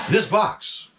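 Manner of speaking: halting, overly dramatic starship captain; a hammed-up Kirk with pauses between the words; bad Captain Kirk. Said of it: "my horrible impression of Captain Kirk".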